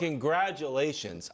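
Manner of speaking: dryly sarcastic congratulations. Real, not acted. Host congratulating a player over a minor award, sarcastic. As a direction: offer congratulations you don't mean. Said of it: "I say it totally sarcastically".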